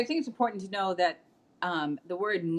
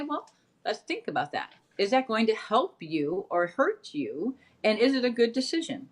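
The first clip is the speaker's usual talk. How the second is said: lightly acted parent posing questions; gentle parent voice; 3 semitones higher than usual. Mother answering her kids' request without saying no, gentle and questioning.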